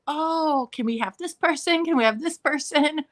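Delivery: high-pitched mock fan begging; playful, high-pitched begging; eager pleading. Fans begging for more books.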